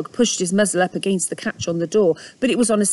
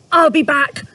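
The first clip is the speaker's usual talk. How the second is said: panted; 7 semitones higher, 6 dB louder than usual. Acted. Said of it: "Mister Dog panted".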